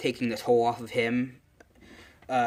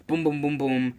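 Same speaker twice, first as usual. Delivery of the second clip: imitated running booms; 3 semitones higher than usual.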